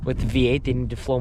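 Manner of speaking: stiff cold lips, words a little slurred; frozen mouth. Real, not acted. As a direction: speak through numb frozen lips. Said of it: "sorry, my mouth is frozen".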